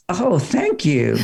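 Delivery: slow, drawn-out grateful "oh, thank you". Retold or imitated. Wife thanking a tall stranger at the door, drawn-out gratitude. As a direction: imitate a wife's appreciative thanks, stretched out. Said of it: "what that tone of voice says".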